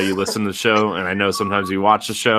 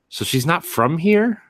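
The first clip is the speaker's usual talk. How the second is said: quoting mom; 10 semitones higher than usual. Retold or imitated. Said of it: "And she's like".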